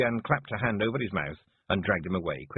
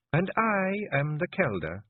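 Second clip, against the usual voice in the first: hard, cold Kelder voice; 10 semitones higher, slower than usual. A narrator's reading. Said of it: "use your voice like that, hard, cold, sharp".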